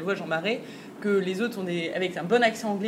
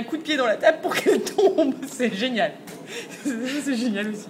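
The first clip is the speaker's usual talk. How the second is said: words broken up by real laughter; giggling delight at the silly scene; laughing while talking; 3 semitones higher than usual. Real, not acted. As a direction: laugh through the line, amused. Laughing at a funny fight scene.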